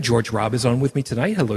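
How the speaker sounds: ordinary talk, nothing marked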